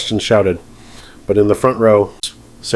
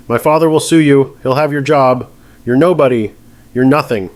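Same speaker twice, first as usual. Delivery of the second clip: screaming threats; 5 semitones higher than usual. Acted. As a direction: shout threats at the judge. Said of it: "cuts through her screaming".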